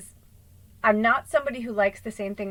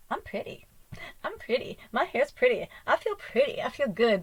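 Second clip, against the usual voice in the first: tag; 4 semitones higher than usual. Acted. Acting delight at freshly curled hair.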